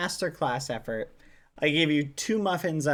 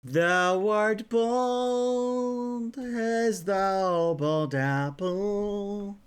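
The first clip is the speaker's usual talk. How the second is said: mock Shakespearean insult; 3 semitones higher, much slower than usual.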